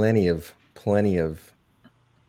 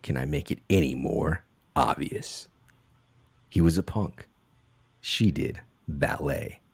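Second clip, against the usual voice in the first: movie trailer voice; 2 semitones lower than usual. Acted. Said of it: "I have to do this one in the trailer voice".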